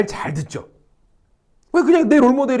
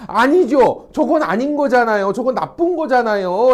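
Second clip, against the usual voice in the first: mock-indignant protest, a touch higher; indignant objection; 4 semitones higher, 4 dB louder than usual. Teacher voicing a person seeking agreement, mildly indignant. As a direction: act out someone insisting it's wrong. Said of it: "라고 지금".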